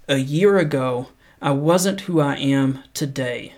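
measured, unhurried reading of a quote; paced motivational read; slow inspirational quote reading. Acted. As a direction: read it slow and earnest, letting each line land. Reads motivational quotes slowly.

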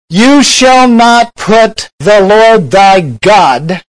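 slow, ringing shout from the pulpit; preached shout. Acted. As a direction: thunder out the rebuke slowly. Jesus rebukes Satan.

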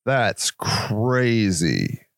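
lightly voiced awestruck God; awed amazement. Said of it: "God was like".

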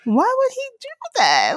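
high, baffled imitation of the hurt dad. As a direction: squeak out the dad's disbelief. Quoting husband, hurt by son.

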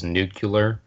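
nuclear with an extra syllable, nucular; imitated mispronunciation. Teasing a friend's way of saying it, nuclear as "nucular". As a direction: say nuclear as "NOO-kyuh-ler". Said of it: "he still says nuclear".

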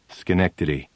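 curt, flat reply; cold answer. Retold or imitated. Brushing off the psychiatrist with a cold one-word answer. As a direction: answer coldly, giving nothing away. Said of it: "And I say coldly".

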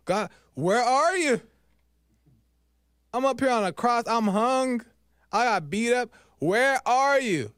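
high-pitched cry up to God; anguished questioning. Acted. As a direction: demand an answer from God, pitched well up. Acting out Jesus questioning God.

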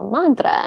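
mantra high, open ah; Sanskrit mantra. Shown as a demonstration. Teacher saying mantra the Sanskrit way in class. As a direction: sing out mantra, long ah. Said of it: "And then I said".

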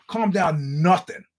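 lightly heated, drawn-out retort; slow, mildly annoyed pushback; indignant retort. Retold or imitated. Comic retelling his comeback to an armed heckler, indignant. Snaps back in retold standoff.

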